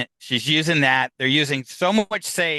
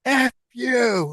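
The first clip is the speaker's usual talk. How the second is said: higher, drawn-out ghostly retort; disembodied voice; 9 semitones higher than usual. Retold or imitated. Spirit answers from the bedroom, disembodied voice. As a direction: imitate an angry spirit's voice. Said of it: "you heard a disembodied voice from the bedroom goes".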